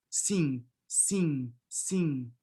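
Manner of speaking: sim with nasalized vowel, no closed final m; nasal sim. Shown as a demonstration. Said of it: "Just nasalize the E".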